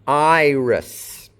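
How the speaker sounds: Iris ending in a hissed S, not Z; slow Iris with a voiceless S at the end; final S sound. Shown as a demonstration. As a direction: draw out Iris, finish on a clear S. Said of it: "an S sound, not a Z".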